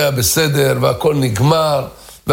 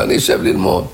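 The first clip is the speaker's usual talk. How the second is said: whispered to himself; faster than usual. Acted. Man repeats resolve to himself.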